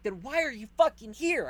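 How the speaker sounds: exasperated retort. Retold or imitated. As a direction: fire the question back, fed up. Retold exasperated retort at firemen.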